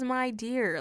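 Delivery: a touch of sweetness in correction; tender address. Retold or imitated. Jesus calling Martha dear while correcting her, mildly tender. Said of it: "But it's sweet, it's tender".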